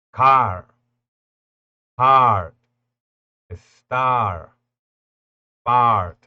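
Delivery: car, heart, star, part loud, vowel held long; long open a; long English a. Shown as a demonstration. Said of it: "un sonido largo".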